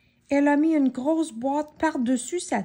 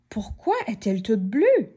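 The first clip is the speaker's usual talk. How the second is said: astonished. Acted. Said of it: "s'étonna Monsieur Nigaud".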